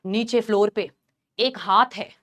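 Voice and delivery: low, hushed eerie voice; possessed senior. Retold or imitated. Possessed senior telling of a hand on her, low and eerie. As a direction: play someone possessed, dropped low. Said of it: "एकदम possessed behave कर रही है".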